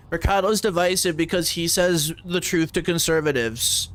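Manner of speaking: high mocking voice of the critics; high sarcastic impression of the people who dismissed Mercado. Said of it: "Remember how we had to deal with that?".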